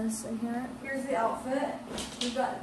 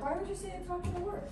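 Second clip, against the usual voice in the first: laughing; 8 semitones higher, 7 dB quieter, much faster than usual. Real, not acted. Mock offence at sister.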